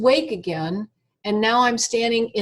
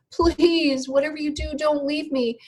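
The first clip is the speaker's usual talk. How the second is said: begging; 5 semitones higher than usual. Retold or imitated. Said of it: "And I kept begging".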